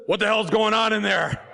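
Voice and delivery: a hint of a gruff voice for the sweet-voiced wife. Wife calling into the voting booth, mock gruff. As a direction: bark it lightly like a rough guy. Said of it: "she doesn't sound like that".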